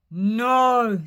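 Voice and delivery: loud firm goat; big goat refusing the troll. Acted. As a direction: refuse loudly.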